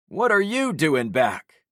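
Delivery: slow, high Southern Florida drawl; thick Florida drawl. Acted. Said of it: "a man asked in a thick Florida drawl".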